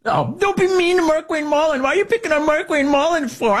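high, whiny mock plea. Host mocking critics in a high whine. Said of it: "But wait, wait".

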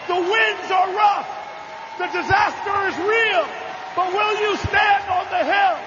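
rousing the hall to stand up with him; preaching at full force. Acted. Rallying the Texas convention crowd to stand up, preaching shout.

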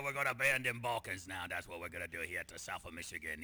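Chicago-meets-Minnesota accent, mocking the lawmakers; over-the-top Michigan accent. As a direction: ham up a South Michigan yokel accent. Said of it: "It's Chicago accent with a hint of Minnesota in there".

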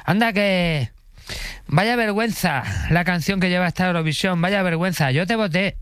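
high-pitched mock scolding; indignant passerby. Street stranger berating the contestant, high mock indignation. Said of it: "te venía gente por la calle de".

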